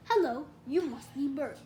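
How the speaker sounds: lightly put-on puppet greeting; Sesame Street voice. A narrator's reading. Little brother playing puppets at the sink, Sesame Street voice. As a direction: greet them like a children's TV puppet. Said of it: "in his best Sesame Street voice".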